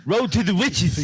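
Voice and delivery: Riches said lisped as Witches. Retold or imitated. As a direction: lisp the R into a W: Witches. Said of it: "you gotta say it the right way".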